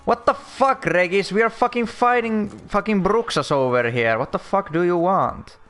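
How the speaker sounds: real frustrated shouting; angry yell. Real, not acted. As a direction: yell at the useless companion mid-fight. Yelling at useless companion.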